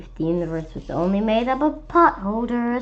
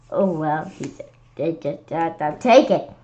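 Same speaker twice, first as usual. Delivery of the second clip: low monster; 4 semitones lower than usual. Acted.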